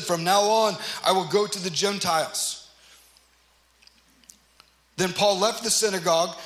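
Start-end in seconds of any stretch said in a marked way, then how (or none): 0.0-2.7 emphatic declaration. Acted. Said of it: "Paul's message was so emphatic".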